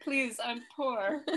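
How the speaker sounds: high, slow mock plea through laughter; Annie. Host quoting Bridesmaids to co-host, high mock pleading. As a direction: plead poverty in a hammed-up movie voice. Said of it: "identify with Annie".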